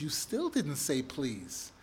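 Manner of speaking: a patient parent, unbothered; calm patient parent. Retold or imitated. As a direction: gently remind the kid of his manners. Parent calmly holding the line.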